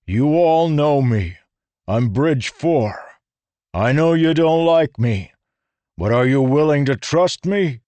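channel a tough bridge sergeant; Teft impersonation. A narrator's reading. Rlain imitating Teft to rally the humans. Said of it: "did his best Teft impersonation".

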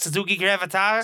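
put-on a light try at a Boston accent. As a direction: say it like a Boston local. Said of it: "I was just attempting a Boston accent".

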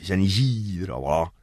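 "San Isidro" con la segunda i larguísima, rematado en "Volá"; estirá "San Isidro": "shanishiiiro"; pronunciación porteña parda. Shown as a demonstration. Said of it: "Es con volá al final". ("San Isidro" arrastrado, con volá al final)

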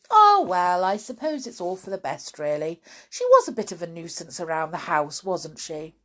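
untroubled, brisk reflection; calmed down. Acted. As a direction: settle into mild, quick acceptance. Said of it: "she calmed down quite quickly".

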